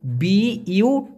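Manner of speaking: slow, letter-by-letter spelling. Shown as a demonstration. Teacher to viewers spelling the Malay word, slow letters. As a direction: spell each letter out slowly for learners. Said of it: "উচ্চারণ".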